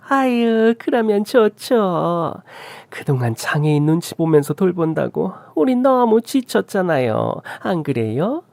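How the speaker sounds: high, drawn-out cooing; mother-in-law, delighted then complaining. Acted. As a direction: gush in a high voice, then grumble. Mother-in-law welcomes trip.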